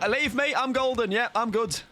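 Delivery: playful high voice. Pretend. Brushing off teammate's help.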